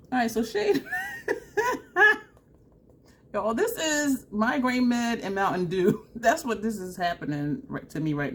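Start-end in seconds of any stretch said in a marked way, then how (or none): 0.9-2.2 loud, high cackle breaking into a cry; squealing laughter. Real, not acted. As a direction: crack up helplessly. Laughing fit over runny nose.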